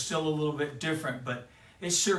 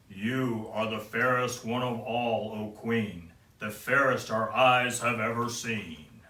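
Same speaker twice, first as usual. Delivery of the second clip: slightly lower, otherworldly mirror voice; lightly voiced magic mirror; 4 semitones lower, slower than usual. Magic mirror answering the vain queen, solemnly. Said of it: "the mirror said".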